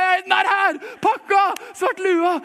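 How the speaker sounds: high, loud burst of mock joy; imitating excited friend. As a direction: shout it out like a kid at Christmas. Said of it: "så er han allerede bare".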